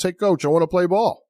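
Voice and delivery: put-on a skinny kid pleading to join the team; eager kid. Undersized kid begging the coach for a spot, high and eager.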